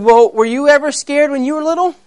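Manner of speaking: high, questioning cub voice; baby lion. Acted. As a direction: ask as a curious little lion. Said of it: "here was a little baby lion".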